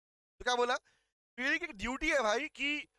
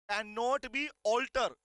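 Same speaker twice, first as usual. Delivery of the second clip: slow dictation; much slower than usual. Shown as a demonstration.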